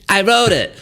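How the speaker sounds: a hint of the old Trevor voice. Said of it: "In your old Trevor voice".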